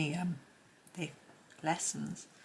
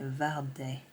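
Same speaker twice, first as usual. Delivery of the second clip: terrible French accent; 3 semitones lower than usual. Shown as a demonstration. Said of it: "my terrible French accent".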